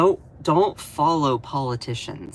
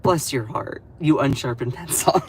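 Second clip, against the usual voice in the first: Southern sass. Pretend. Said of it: "as a Southern gay guy, goes".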